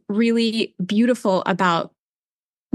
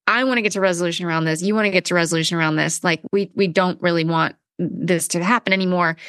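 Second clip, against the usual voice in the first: tedious; 4 semitones lower, faster than usual. Retold or imitated.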